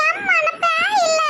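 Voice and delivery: high, drawn-out giggly plea; possessed laughing. Acted. Daughter telling mother she is no ghost, laughing. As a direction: plead slowly, then dissolve into giggles. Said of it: "பேயெல்லாம் சிரிக்குது".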